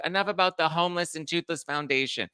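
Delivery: lightly voiced, done with it all; exasperated Kyle. Kyle cutting off the charity talk, lightly mocked and exasperated. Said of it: "Kyle's like".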